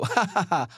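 staccato put-on ha-ha-ha; mock laugh. Viewer reacting to a silly clip, mock laughing. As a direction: laugh it out as an act.

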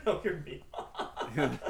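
laughing. Real, not acted. Slow laughing repeat.

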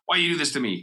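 mildly indignant mock challenge; defensive, angry. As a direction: act out a touch of angry reproach. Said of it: "in a defensive, angry tone".

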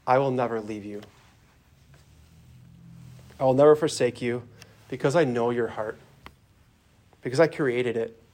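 unhurried, tender promise with long pauses; gentle reassurance. Acted. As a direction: reassure them gently, letting each promise settle. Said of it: "he's just gonna say to you gently".

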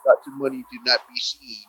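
lightly mocking impression of a film character's voice; imitated movie voice. Complaining about an actor's voice in a commercial, lightly mimicked. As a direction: mimic a grown-up Venom's odd voice. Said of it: "Just his voice".

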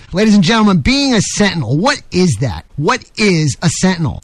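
measured rhetorical delivery; radio editorial. Acted. Radio host introducing his opinion piece on sentinels, editorial oratory. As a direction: pose it like a monologue to the audience.

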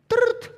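a sharp high trill for the phone ringing; imitated phone ring. Imitating the ringtone as his wife calls during the drive. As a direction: chirp it like a ringtone, loud and high.

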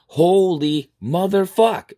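slow, high exasperated curse; exasperated swearing. Acted. Hearing the excuse for googly eyes, exasperated.

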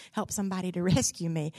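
fast, chuckling through the plea; laughing. Retold or imitated. Castaway begging God for rescue, laughing. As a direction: laugh mid-prayer.

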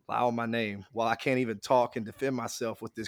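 real crackle in the voice; crackly voice. Real, not acted. Defending himself to the podcast hosts, crackly voice. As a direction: talk through a crackly voice. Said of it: "with this crackly ass voice".

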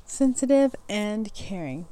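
slow, deliberate reread of the words; careful reread. Shown as a demonstration. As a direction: say it again slowly, getting it right. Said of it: "mouth doesn't wanna work".

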